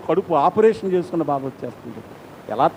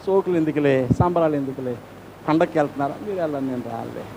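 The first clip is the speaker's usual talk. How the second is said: heartbroken refusal; 4 semitones lower, 5 dB quieter than usual. Retold or imitated. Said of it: "హృదయం కేకలేస్తే ఎక్కడ కనబడుతుంది".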